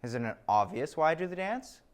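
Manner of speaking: smug, slow rising question; pretentious. Pretend. Steve, pleased with himself, smugly pretentious. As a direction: savour it like a know-it-all. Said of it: "almost pretentious look".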